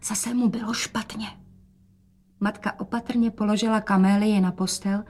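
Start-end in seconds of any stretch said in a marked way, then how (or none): 0.0-1.3 secret whisper to mother; whispered aside. Acted. Rozetka whispers to mother about sick father. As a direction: breathe it so father won't hear. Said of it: "dodala šeptem".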